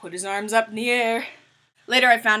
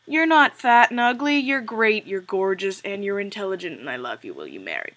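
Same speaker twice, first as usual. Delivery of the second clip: mock gushing reassurance; 6 dB louder than usual. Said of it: "looking for somebody to say".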